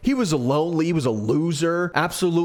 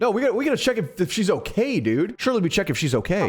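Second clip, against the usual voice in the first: higher, urgent pleading; urgent protest; 5 semitones higher, faster than usual. Real, not acted. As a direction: insist they must check on her. Protests stopping at girl.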